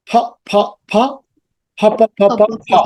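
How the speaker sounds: "pha" singly, then in a run; teacher sounding out P as "pha"; aspirated P drill. Shown as a demonstration. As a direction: puff air on the P of each "pha". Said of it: "পি এর সাউন্ডটা কি?".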